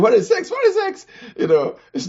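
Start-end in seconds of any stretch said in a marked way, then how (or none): 0.0-0.5 higher "What is sex?" with a rising end; mock baffled question. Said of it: "Someone is checking". 0.5-1.1 "What is sex?" much higher, falling at the end; mock baffled repeat. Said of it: "Someone is checking".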